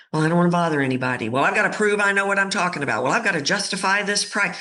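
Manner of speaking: fast, hurried mock-worried inner voice; a seller's anxious self-talk, fast. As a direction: rush through the excuses. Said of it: "All this stuff is coming out in sound".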